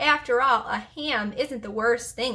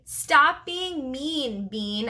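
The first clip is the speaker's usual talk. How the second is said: mock yell; 3 semitones higher, much slower than usual. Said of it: "I yelled at the top of my voice".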